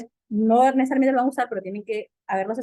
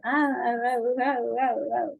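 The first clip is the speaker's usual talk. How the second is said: put-on baby babble. Shown as a demonstration. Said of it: "el niño hace".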